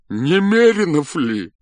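a tormented general pleading, tearful. A narrator's reading. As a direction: plead through tears. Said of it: "спросил он плачущим голосом".

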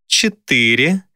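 counting down a life; demon counting. A narrator's reading.

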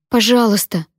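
громкая мольба, выше; умолять, чтобы перестали бить; мольба криком. A narrator's reading. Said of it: "кричала я". (умоляющий крик)

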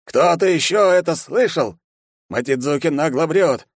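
put-on old guard snarling at the hero; growling old man. A narrator's reading. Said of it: "рычал старик". (рычит гневно)

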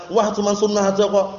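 mildly dismissive brush-off; a touch of a sulky shrug. Retold or imitated. Brother sulkily dismisses the advice, mild mock. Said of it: "Merengut wajahnya".

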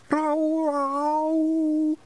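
a high, loud, drawn-out anguished wail; mournful moan. Acted. A pixie poet warming up to recite, anguished high wail. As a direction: moan like an animal in terrible pain. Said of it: "like some animal in terrible pain".

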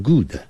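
good with an extra vowel after the d, kudə; wrong pronunciation. Shown as a demonstration. Teacher showing a wrong good with added vowel. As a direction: add a little uh after good's d. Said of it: "不是念成".

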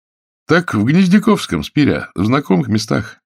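high, loud, swinging reply; hearty jailer. Acted. Warder tells the drunk where he landed, loud and hearty. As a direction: announce it with mocking heartiness. Warder answers the dazed prisoner.

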